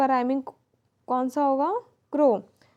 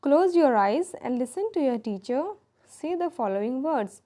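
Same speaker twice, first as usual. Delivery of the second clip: slow instruction read; 3 semitones higher, much slower than usual. Shown as a demonstration. Teacher reading textbook instruction.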